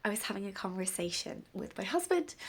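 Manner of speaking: stuffy, bunged-up cold voice; blocked nose. Real, not acted. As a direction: speak through a head cold. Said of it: "You could tell I've got a cold".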